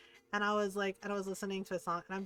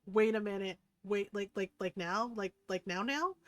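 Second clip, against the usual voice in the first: stammered, rising disbelief; caught off guard. Retold or imitated. Man whose bluff got called, caught off guard. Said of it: "call his bluff and he's like".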